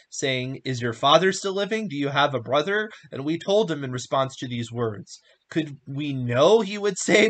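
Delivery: measured, emphatic reading of a Bible story; scripture reading. A narrator's reading. Reading Genesis aloud to listeners, emphatic scripture reading. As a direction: read it out with clear, weighty stresses.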